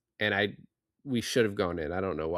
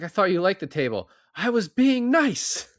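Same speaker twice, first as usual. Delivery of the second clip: hammed-up high whine, louder; mock whiny Harry; 9 semitones higher, 5 dB louder than usual. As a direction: mimic a hurt man whining that he meant well. Mocking Harry's hurt reply.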